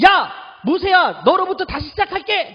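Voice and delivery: God losing patience, calling out to Moses; God, furious, calling out to Moses loudly; angry God. Acted. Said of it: "얼마나 화가 나면".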